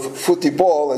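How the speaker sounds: futebol said as in Brazil, foo-chee-BOL; Portuguese pronunciation of futebol. Shown as a demonstration. Preacher slips into his own Portuguese word for soccer. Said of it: "as we would say".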